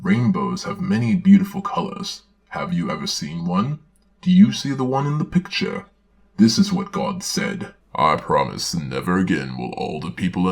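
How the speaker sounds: put-on gentle read-aloud for children; storybook reading. Narrator reading a Bible story to children, storybook voice.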